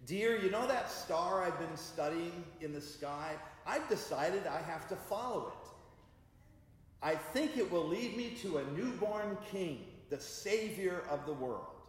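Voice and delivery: a touch of a starry-eyed wise man; husband breaking big news to his wife, lightly eager. Retold or imitated. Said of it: "I started the conversation with this".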